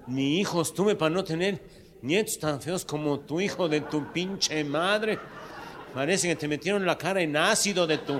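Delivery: put-on an old man erupting in insults; shouted, slow-stretched tirade from a cranky old man; furious old man. Old man cursing at notary.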